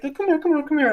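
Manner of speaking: high, light coaxing call; high-pitched beckoning. Retold or imitated. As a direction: coax like calling a dog. Life beckoning, like calling a dog.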